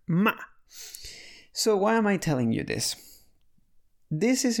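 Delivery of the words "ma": "Ma." falling sharply like a command; sharp falling fourth-tone "Ma.". Shown as a demonstration. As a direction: snap "Ma." straight down like an order. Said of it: "kinda like an order".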